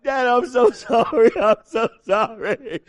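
hammed-up slow, sobbing apology; fake crying child. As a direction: drag it out like crocodile tears. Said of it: "or a fake cry".

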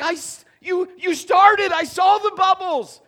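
high, loud mock outrage; indignant yell. Texter whose reply bubbles vanished, loud mock outrage. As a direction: shout at the phone as the typing bubbles vanish. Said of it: "And you're like".

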